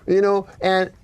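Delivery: retelling a stand-up bit in his voice; slowing on the punchline, imitating the comic; comic on stage. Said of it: "He goes".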